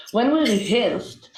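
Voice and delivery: "rehearsed" said with a Hebrew-accented R; deliberate Hebrew-accented English, stressing "we". Shown as a demonstration. Speaker retrying the phrase for the panel, in a Hebrew accent. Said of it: "we did it with, uh, Hebrew accent".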